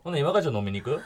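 casual Kansai accent invitation. Shown as a demonstration. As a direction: ask it in easy Kansai accent. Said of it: "関西弁で話してみてもらっていいですか". (関西弁で気軽に誘う)

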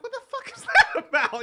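high, loud, laughing disbelief; what the heck, cracking up; incredulous. Retold or imitated. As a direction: squeal it in outraged disbelief. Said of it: "I'm like".

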